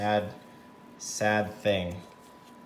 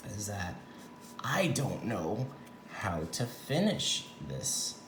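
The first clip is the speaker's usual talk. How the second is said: whispering; 6 dB quieter, slower than usual. Real, not acted. Confesses quietly while working.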